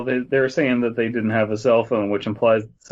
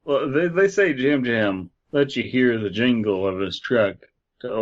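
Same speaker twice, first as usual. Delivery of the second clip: lightly eerie campfire reading; understated creepy narration; spooky story narration. Acted. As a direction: tell it like a ghost story. Reads the legend aloud.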